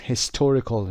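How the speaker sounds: "historical" said with a clearly marked stressed syllable; stress demo. Shown as a demonstration. Teacher showing students where "historical" is stressed, careful. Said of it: "استرس رو دقت داشته باشید".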